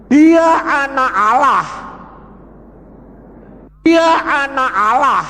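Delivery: high, loud proclamation of the name; proclaimed. Real, not acted. Preacher proclaiming to the congregation, loud and high. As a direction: declare it to the whole hall.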